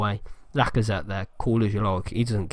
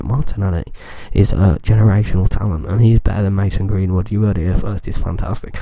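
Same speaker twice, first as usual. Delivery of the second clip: close to the mic; 3 semitones lower than usual. Shown as a demonstration. Gamer telling his viewers a hot take, close to the mic. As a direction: say it up close on the mic like a big announcement. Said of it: "I'm gonna get close to the mic".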